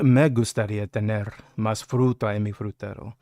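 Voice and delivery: smoldering Spanish line; low sexy voice. Shown as a demonstration. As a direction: say it low, look him in the eye. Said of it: "But you gotta lower your voice".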